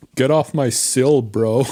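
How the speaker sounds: best attempt at American accent. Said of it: "you gotta use your best American accent".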